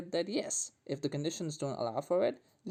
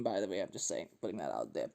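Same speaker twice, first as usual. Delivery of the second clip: quiet aside; 8 semitones lower, 5 dB quieter than usual. Real, not acted. Host confesses he backs the anti-Liverpool side, in a low, soft aside. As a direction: drop much lower and softer for a throwaway aside. Sheepish aside after admitting allegiance.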